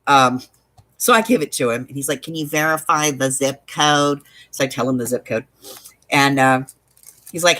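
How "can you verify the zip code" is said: mildly snarky customer service agent. Retold or imitated. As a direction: imitate a bored phone agent, lightly.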